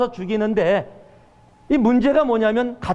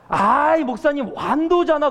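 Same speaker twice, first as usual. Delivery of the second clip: exasperated correcting; 6 semitones higher than usual. Retold or imitated. Correcting junior pastor.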